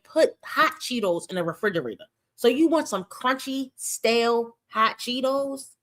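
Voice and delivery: high, disbelieving and mocking, with a slowed "hot Cheetos"; incredulous mockery. Real, not acted. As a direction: sneer at the idea of cold chips. Mocking a kid's soggy lunch.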